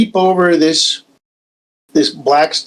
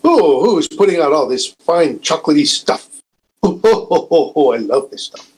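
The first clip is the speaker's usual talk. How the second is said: Bill Cosby impression. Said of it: "best, uh, Bill Cosby voice and go".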